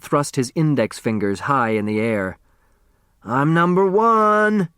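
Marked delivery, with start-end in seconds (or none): 3.2-4.7 higher, slow victory cry; triumphant shout. Acted. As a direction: shout it out to the whole room. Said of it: "he shouted".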